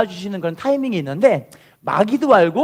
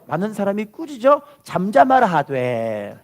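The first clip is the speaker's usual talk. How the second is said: slow, measured repeat of the verse; slow read-along; slower than usual. Shown as a demonstration. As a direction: lead the people in reading slowly. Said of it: "따라할게요". (천천히 따라 읽게 하듯이)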